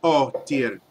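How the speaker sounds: disbelief rising; exasperated dwarf. Acted. Dwarf asking if the party is serious, exasperated.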